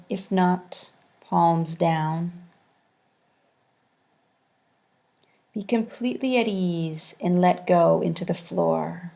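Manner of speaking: measured yoga nidra guidance with long pauses between instructions; guided meditation. Acted. Yoga teacher guiding students into corpse posture, calm guided meditation. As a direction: settle them into rest, one unhurried phrase at a time. Leads guided relaxation practice.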